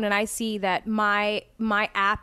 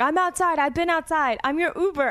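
higher-pitched, mildly angry imitation; retold angry driver; 4 semitones higher than usual. Driver calling passenger who never showed, mildly angry imitation. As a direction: mimic an annoyed caller, lightly voiced. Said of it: "a call from an angry, mean man".

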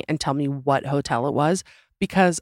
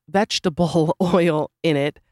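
laughing. Real, not acted. Laughs mid-word.

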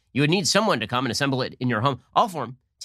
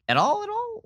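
mock incredulous question. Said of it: "Barr was saying things like".

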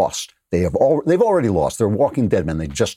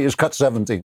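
ordinary delivery

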